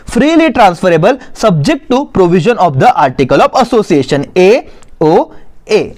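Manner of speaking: slow, measured reading for note-takers; dictation reading. Acted. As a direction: read out the definition slowly, phrase by phrase. Reads notes aloud for dictation. (धीरे-धीरे notes लिखवाते हुए पढ़ना)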